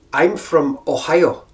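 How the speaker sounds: put-on slow, slightly brogue-tinged accent; unhurried, lightly Irish-accented reply. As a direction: answer slowly with a touch of Irish. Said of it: "I've started to pick up the brogue".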